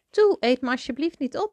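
high pleading little mouse voice; anxious squeak. A narrator's reading. Lost mouse begging the beasts, high anxious squeak. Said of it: "piepte Toby angstig".

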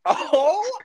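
high loud exclaimed oh; surprised oh. Real, not acted. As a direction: cry out in surprise. Reaction to pun.

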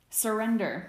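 high, loud victor's demand; pillow-fighter shouting a demand. Acted. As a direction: order him to give up. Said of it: "Sirius demanded".

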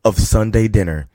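slow hyped-up host intro; show announcer. Acted.

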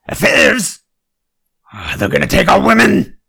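high, loud paranoid alarm; mock panic. Comic reader fakes panic at the word affairs, loud and high. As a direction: shriek like a scared bigot.

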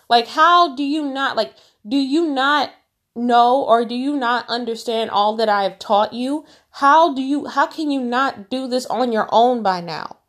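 a teacher fed up with his students; exasperated Jesus. Retold or imitated. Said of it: "That's what Jesus is saying".

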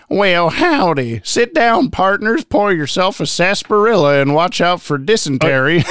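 put-on slow, drawn-out Old West prospector; old-timey prospector voice. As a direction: play a grizzled gold-rush prospector. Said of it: "old-timey prospector voice".

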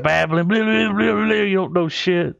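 mock angry rant. Acting out a furious movie line.

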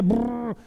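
revving engine noise made with the lips; vocal motor rumble; imitated engine. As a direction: brrr like a car stuck in first gear. Imitates engine in first gear.

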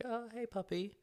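high-pitched mock cooing to a dog; imitated puppy greeting. Neighbour meeting the puppy on a walk, high imitated greeting.

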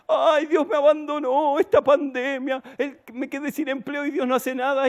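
high-pitched mock lament; lloriqueo fingido. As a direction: parody a self-pitying believer wailing. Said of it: "Y viven llorando". (lamento exagerado, imitando a un cristiano llorón)

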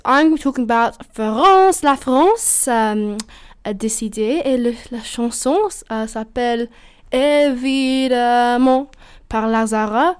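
slow, announcing the French entry in French; speaking French. Real, not acted. Podcaster introducing France's entry, slow French announcement. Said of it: "I don't know why I said that in French".

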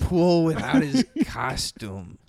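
exaggerated teasing imitation; mocking voice. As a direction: parody his words in a put-on voice. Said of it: "You don't say anything like that".

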